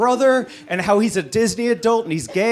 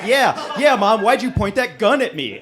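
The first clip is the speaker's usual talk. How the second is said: laughing mock reply; 4 semitones higher, 3 dB louder than usual. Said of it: "And I'm like".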